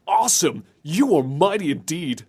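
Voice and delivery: upbeat, cheery mock hero; lightly hammed-up heroic praise; Simon Belmont. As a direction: imitate a motivational champion. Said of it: "he seems so upbeat and cheery".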